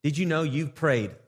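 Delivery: sample prayer. Shown as a demonstration. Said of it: "You say".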